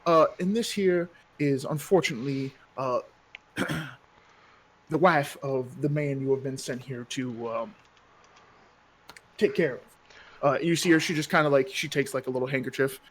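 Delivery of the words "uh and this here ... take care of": a lightly voiced, genteel town mayor, a bit higher; lightly voiced courteous mayor; smooth mayor. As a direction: play the polite, slightly oily mayor.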